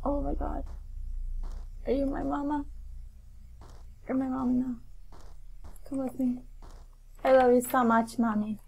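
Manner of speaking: very soft, hushed voice; hushed awe. Real, not acted. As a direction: talk softly to a newfound mama. Finds the mama in game.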